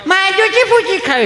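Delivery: put-on very high, squeaky kid voice; hammed-up childish demand; little child. Child telling parent what food it wants, squeaky.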